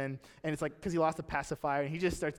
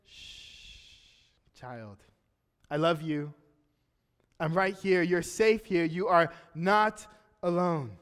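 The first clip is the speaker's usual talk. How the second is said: put-on God whispering to his child, gently; tender reassurance; slower than usual. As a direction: comfort a frightened child as God. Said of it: "wings and says".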